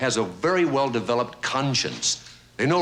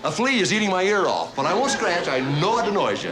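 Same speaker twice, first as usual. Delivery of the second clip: higher, meek and over-polite; apologetic dog; 8 semitones higher than usual. Acted. Guilty dog asking his owner's leave to stand there, meek apology. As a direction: tiptoe through it as a cringing, guilty dog.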